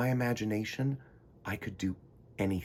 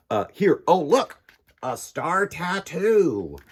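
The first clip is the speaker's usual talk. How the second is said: excited; 7 semitones higher, 7 dB louder, slower than usual. Acted. Excited discovery.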